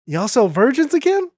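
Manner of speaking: high-pitched pipe-up from the crowd; high gazelle voice; curious gazelle. Acted. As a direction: pipe up high with a rising question.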